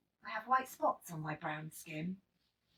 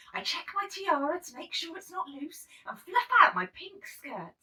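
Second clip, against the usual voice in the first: whisper; 8 semitones higher, 8 dB louder than usual. A narrator's reading.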